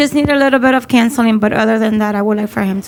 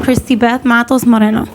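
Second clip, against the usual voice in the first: louder, to be heard clearly; speaking up; 3 dB louder than usual. Real, not acted. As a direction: say your name up over the noisy air. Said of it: "Can you speak up?".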